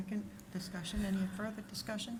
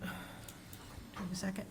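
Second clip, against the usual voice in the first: strained voice cracking out; voice giving out; 7 dB quieter, faster than usual. Real, not acted. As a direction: voice failing, a little softer. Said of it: "I'm losing my voice".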